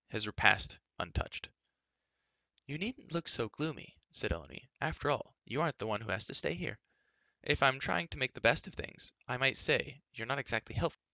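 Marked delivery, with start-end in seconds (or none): 2.6-11.0 Elenwy, peevish. A narrator's reading. Girl needling gloomy Taryn at the feast, huffy. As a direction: chide him pertly in a raised voice.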